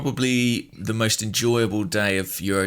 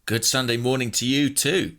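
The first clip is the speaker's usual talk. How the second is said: churchy response; 4 semitones higher than usual. Pretend. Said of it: "That's how they say it in church".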